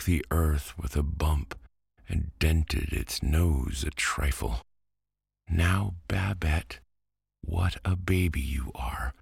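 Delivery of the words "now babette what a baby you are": high, scolding big-brother tone; bossy little princess. A narrator's reading. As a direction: tell her off, high. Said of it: "cried Antoine".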